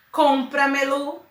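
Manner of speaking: compra-melo with a strong first syllable; stress on COM. Shown as a demonstration. Teacher shows the strong syllable, stressing the start of compra-melo. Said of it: "o com é a forte".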